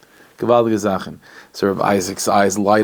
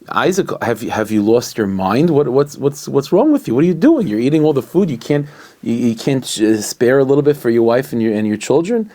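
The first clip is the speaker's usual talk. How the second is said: exasperated wife; 3 semitones higher than usual. Retold or imitated. Wife scolding her husband at the table, rising exasperation. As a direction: scold him for hoarding the food.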